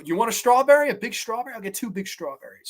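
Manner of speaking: put-on like a little girl offering treats, fading away; deflated childish Baby Jane. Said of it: "immediately deflated to".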